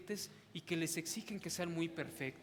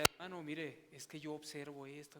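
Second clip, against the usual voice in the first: softer, calm reasoning; calmly; 4 semitones lower, 3 dB quieter than usual. Retold or imitated. Preacher models talking calmly to an upset brother, soft and tranquil. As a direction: reason with him quietly and tranquilly.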